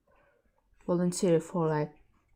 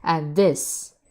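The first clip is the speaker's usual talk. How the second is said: Heavy Weapons Guy; 5 dB louder than usual. Acted. Quotes a game character's famous line.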